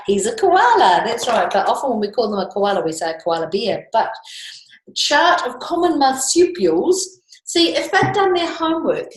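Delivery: ranting koala. Acted. Teacher reading the picture book to the class, as an indignant koala. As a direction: rattle off the koala's grievance, exasperated. Reads the koala's rhyming complaint.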